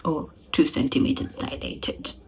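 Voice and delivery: whispered offhand doctor; a hint of a dismissive doctor. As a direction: toss it off like a careless doctor. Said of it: "ba re".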